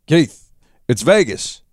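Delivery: put-on slow, drawn-out American accent. A narrator's reading. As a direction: draw out Vegas in an American voice. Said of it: "my fucking American accent".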